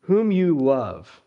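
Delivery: "love" slow and weighted; slow down and lean on "love"; stress on love. Shown as a demonstration. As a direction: underline "love" with the voice. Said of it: "I would underline that word love".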